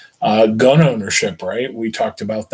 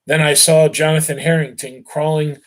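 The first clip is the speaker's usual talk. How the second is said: steady read-aloud voice for a class, brothers' dialogue lightly voiced; story narration; 3 semitones higher than usual. A narrator's reading. Teacher reading the novel aloud to students, steady read-aloud voice. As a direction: carry the class through the tale, unhurried.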